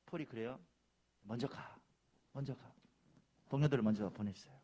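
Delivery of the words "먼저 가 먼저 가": subdued, unhurried urging; quiet insistence. Retold or imitated. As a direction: gently send the others on ahead. Paul quietly waves colleagues on.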